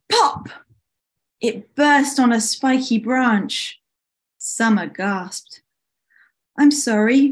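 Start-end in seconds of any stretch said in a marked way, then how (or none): 0.1-0.5 sudden high-pitched pop; bursting pop. A narrator's reading. Storyteller imitates the ball bursting, high sudden pop. 6.6-7.3 higher, louder apology; apologetic. Acted. Winter apologizes for the burst ball, apologetic. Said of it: "Winter apologized".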